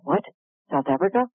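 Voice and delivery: astonished echo, rising into a question; retold surprise. Speaker hearing of her dream place, in retold surprise. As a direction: repeat it in mock disbelief.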